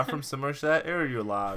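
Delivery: hammed-up Somerset rustic call; playful mock Somerset; Somerset accent. Shown as a demonstration. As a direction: put on a broad Somerset accent. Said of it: "I'm doing a Somerset".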